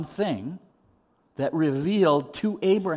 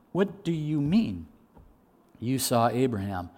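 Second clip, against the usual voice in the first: acted disbelief; 2 semitones lower than usual. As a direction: spell out the disbelief word by word. Repeats the disbelieving question, drawn out.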